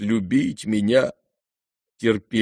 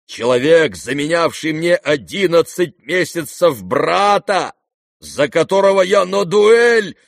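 high, loud and slow indignant outburst; hurt father lashing out at his son; outraged; 8 semitones higher, 6 dB louder than usual. A narrator's reading. The general rants at Kolya in the street, high and loud.

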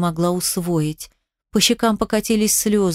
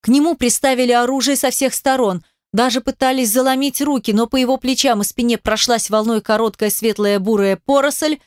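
usual speaking voice

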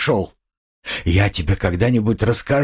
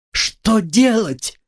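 much higher, slow exclamation; sudden cry; 11 semitones higher, much slower than usual. A narrator's reading. Sonya springing up to answer him, sudden high cry. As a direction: burst out, voice leaping up. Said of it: "вскрикнула она".

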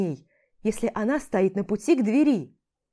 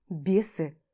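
usual speaking voice

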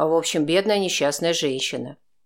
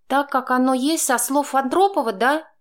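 higher, louder woman's voice, snide; Chaika, sarcastic; snide jab; 10 semitones higher, 3 dB louder than usual. A narrator's reading. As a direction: needle him sarcastically. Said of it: "съязвила она".

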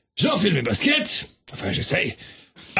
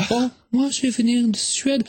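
put-on Swedish accent; 3 semitones higher than usual. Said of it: "mais quel joli accent!".

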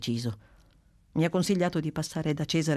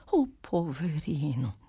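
repeated pity; slower than usual. Acted. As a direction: let it fall gently. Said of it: "ripeté Clelia Trotti".

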